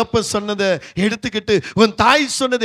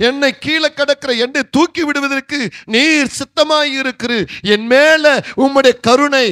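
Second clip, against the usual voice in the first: confident preached prayer; 3 semitones higher than usual. Acted. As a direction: declare it to God with growing faith. (நம்பிக்கையுடன் உயரும் ஜெபம்)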